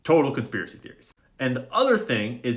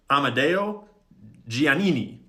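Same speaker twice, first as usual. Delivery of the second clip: put-on Italian accent; 3 semitones higher, 4 dB louder than usual. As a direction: say it like a hammed-up Italian. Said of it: "Sorry for that accent".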